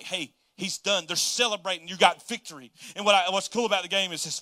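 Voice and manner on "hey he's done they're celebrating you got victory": loud gloating cheer; Satan celebrating. Acted. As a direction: crow it out like a winner. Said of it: "Satan was like".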